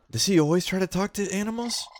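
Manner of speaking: high, curious critter voice; a nosy little raccoon asking. Acted. Raccoon Carla asking Lime about the player, high critter voice.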